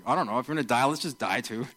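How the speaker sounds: gloomy shrug of a line; downer. Retold or imitated. Thomas resigns himself to dying with Jesus, gloomy. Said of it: "a bit of a downer".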